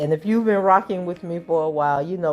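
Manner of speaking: tired, heavy allergy-season voice; a voice barely holding up today; heavy morning voice. Real, not acted. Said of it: "my voice that is feeling like it is not going to make it through the day".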